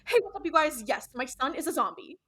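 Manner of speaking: high, loud mock vlogger intro; peppy parody of a YouTuber; Shane Dawson. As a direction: announce it like a hammed-up vlog opener. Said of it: "make her sound like Shane Dawson".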